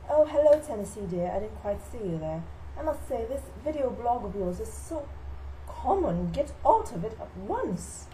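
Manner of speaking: lightly voiced haughty Southern belle; Southern belle mother. Mother scolds her son about his video blog, mock-genteel. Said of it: "She thinks she's a Southern belle".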